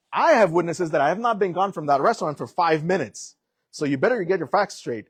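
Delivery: firm, heated comeback to the cop; heated retort. Retold or imitated. Telling off the cop about his witnesses, heated. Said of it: "Exactly how I'm expressing it right now is how I said it".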